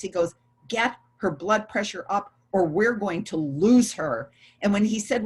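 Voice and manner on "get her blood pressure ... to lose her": mildly harsh, emphatic command. Retold or imitated. Doctor ordering staff at the monitors, imitated harsh voice. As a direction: retell a doctor's harsh order with firm stresses. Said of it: "he went in this really harsh voice".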